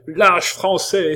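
high, loud, slow denunciation; indignant ringing shout; cry over tumult. A narrator's reading. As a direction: hurl it over a noisy crowd. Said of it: "d'une voix qui domina tout le tumulte".

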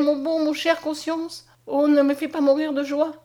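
overwhelmed with joy. A narrator's reading. Mariette to Conscience after his cure, overwhelmed joy. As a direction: let the joy overwhelm you. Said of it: "tremblant de tout son corps".

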